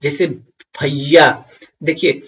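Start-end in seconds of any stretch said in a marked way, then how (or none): 0.8-1.5 loud drawn-out call to a brother. Shown as a demonstration. Teacher calling a brother across the lane, loud. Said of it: "आप कैसे चिल्लाओगे?".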